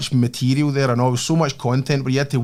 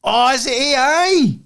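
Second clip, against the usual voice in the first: surprised; 10 semitones higher, slower than usual. Real, not acted. Surprised reaction to AI comeback.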